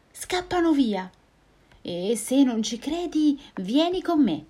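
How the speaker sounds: high, confident little mouse; bold mouse. Acted. Mouse bluffing the Gruffalo, high and bold. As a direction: bluff boldly, high and quick.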